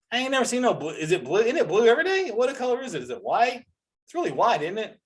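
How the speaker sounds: high, incredulous rant; squeaky mock disbelief; mock outrage. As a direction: pretend you're baffled and outraged.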